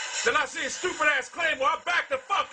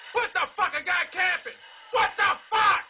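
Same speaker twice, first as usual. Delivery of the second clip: raging gamer; 2 semitones higher than usual. Real, not acted. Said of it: "raging at Call of Duty".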